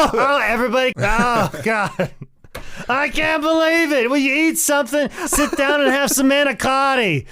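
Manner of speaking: high, loud Italian mama voice; hammy Italian aunt shouting; Italian relative accent. Pretend. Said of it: "if I did an Italian accent".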